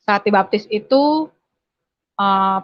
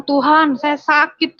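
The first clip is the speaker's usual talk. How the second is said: higher, louder pained outcry; anguished cry to God; 6 semitones higher, 3 dB louder, slower than usual. Retold or imitated. Beaten girl crying out to God in pain, higher and louder.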